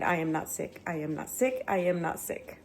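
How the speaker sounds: affirmation. Real, not acted. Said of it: "say it out loud and claim it".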